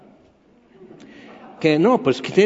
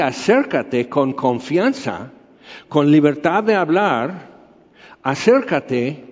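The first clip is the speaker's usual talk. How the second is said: lento, un poco más grave, acogedor; invitación tierna; slower than usual. Acted. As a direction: como Dios que llama con cariño. Dios invita a acercarse. (invitación suave y pausada)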